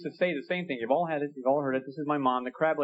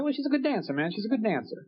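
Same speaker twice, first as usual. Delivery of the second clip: knowing sarcastic reply; 6 semitones higher than usual. Retold or imitated. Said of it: "I said".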